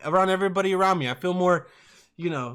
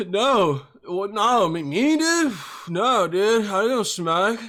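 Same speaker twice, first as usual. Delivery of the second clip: defensive denial; 3 semitones higher, slower than usual. Retold or imitated. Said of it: "But I was like".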